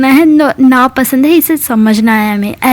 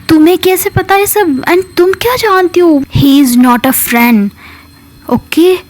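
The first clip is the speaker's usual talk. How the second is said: indignant retort. Retold or imitated. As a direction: snap back that she knows better. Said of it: "ऐसे बोलती है".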